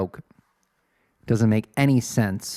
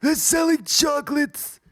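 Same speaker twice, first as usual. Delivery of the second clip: high-pitched answer. Shown as a demonstration. Answering the old lady loudly.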